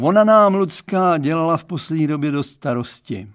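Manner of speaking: put-on dad confiding in the boy; Mr Stránský's voice. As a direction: play the girl's dad, earnest and chatty. Father confides worries.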